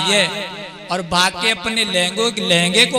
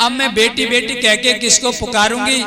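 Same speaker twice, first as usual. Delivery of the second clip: pleading mother; 4 semitones higher than usual. Acted. Mother's farewell plea.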